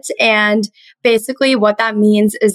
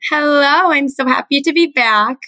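a touch of rasp in the voice; raspy voice; 5 semitones higher than usual. Real, not acted. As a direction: speak with a lightly raspy throat. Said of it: "raspy voice today".

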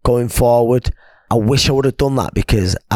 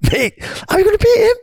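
high mock question breaking into laughter; imitating laughing mate. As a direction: squeak out the mate's laughing question. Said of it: "laughing though, going".

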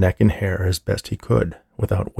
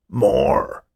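raised, drawn-out cry; insistent demand; 4 semitones higher than usual. A narrator's reading. Old man ignores the orderly's apology, insistent. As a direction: cut in with a higher, insistent cry.

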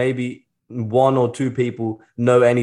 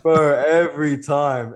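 laughing through the words, slow; 3 semitones higher, slower than usual. Real, not acted. Telling the host it happens constantly, laughing through it. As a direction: laugh it out, amused.

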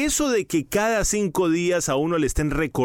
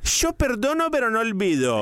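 high, sing-song grudging line; lightly voiced spiteful wife; mock grudge; 7 semitones higher than usual. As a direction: toss it off up high like a proverb with a grudge. Mimicking a grudging saying.

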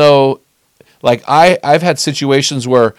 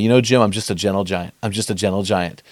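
low, soft confiding voice; imitated gentle giant; 6 semitones lower, 7 dB quieter, faster than usual. Teammate confiding to his friend, imitated low and gentle. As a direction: play a big man speaking softly and low.

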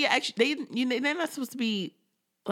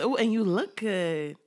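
slow mock-flirty compliment; playful imitation of sweet-talking an ex; 3 semitones lower than usual. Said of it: "She's all flirting".

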